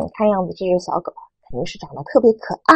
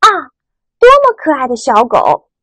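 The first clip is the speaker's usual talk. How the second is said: admiring exclamation; 4 semitones higher, 3 dB louder than usual. Shown as a demonstration. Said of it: "感叹的语气". (赞叹的语气，慢慢读)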